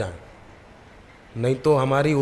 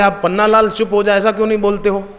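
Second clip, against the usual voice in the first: puzzled question; 7 semitones higher, 5 dB louder, faster than usual. Retold or imitated. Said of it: "तो बोले".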